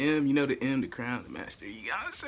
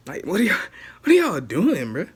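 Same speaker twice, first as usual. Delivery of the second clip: exasperated shout; 4 semitones higher, 9 dB louder than usual. Real, not acted. Exasperated rant about government debt.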